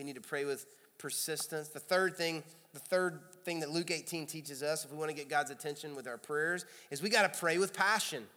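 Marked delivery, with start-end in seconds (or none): none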